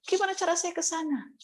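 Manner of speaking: asking Jesus how to get there, lightly pleading; a touch of a pleading question. Retold or imitated. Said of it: "saya tanya lagi".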